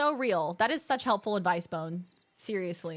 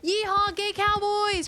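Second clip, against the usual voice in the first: louder, higher mock holler; loud yeehaw; 7 semitones higher, 4 dB louder than usual. Echoing chat, a louder mock cowboy whoop. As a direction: whoop it at the ranch.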